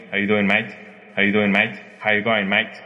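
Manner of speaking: run-together Australian "How you going, mate?"; Aussie greeting. Retold or imitated. Recalling hostel travellers greeting each other, imitated Aussie accent. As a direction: imitate young Australians' casual slurred greeting. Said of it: "Me acuerdo que se saludaban".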